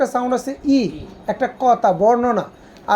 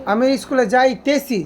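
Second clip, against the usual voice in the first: slow demo. Shown as a demonstration. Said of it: "রানিং নাকি রানিং না".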